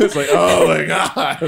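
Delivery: laughing, drawn out. Real, not acted. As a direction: laugh through oh my God. Laughing at the thought.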